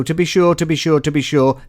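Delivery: a light mock Irish lilt on to be sure; Irish accent. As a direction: toss it off in a jokey Irish brogue. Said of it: "That's the Irish in me just gushing out".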